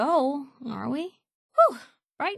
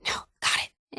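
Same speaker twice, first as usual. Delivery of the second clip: whispering. Acted. Sneeze held back.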